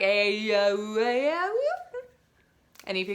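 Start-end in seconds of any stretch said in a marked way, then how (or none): 0.0-1.6 vowels without consonants. Shown as a demonstration. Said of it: "no one would be able to understand".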